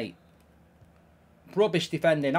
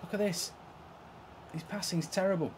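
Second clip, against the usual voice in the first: ordinary delivery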